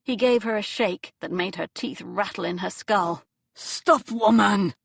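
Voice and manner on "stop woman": much higher, loud yell; furious kidnapper's yell; angry shout. Acted. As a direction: bark at her to stop. Captor shakes struggling Anya.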